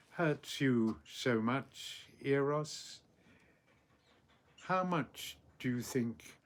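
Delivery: measured, unhurried verse reading with long pauses; poem recitation. Acted. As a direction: recite the mother's reply deliberately.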